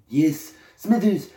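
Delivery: drawn-out villainous boss; hammed-up cartoon tycoon; mock Mr. Burns. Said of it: "auction in a voice".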